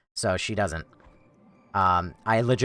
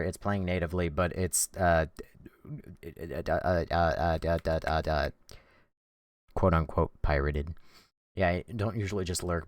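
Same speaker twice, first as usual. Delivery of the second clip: ordinary talk, nothing marked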